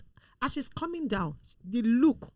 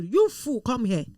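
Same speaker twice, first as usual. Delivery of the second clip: imitated scolding; 2 semitones higher, 4 dB louder than usual. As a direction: act out a mentor ordering someone over. Mentor scolding someone off the pulpit.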